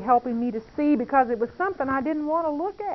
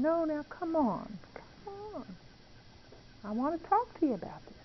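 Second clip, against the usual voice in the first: gentle coaxing; 4 semitones higher, 9 dB quieter than usual. Retold or imitated. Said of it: "the Holy Spirit kept saying".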